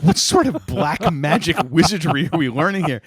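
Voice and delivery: hammed-up disbelief at the trick; mock incredulous. Friend recounting a squirrel trick, mock incredulous.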